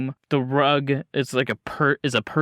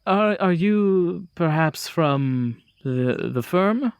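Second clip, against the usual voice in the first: nervous host. Acted. GM voices nervous Thomas Grand.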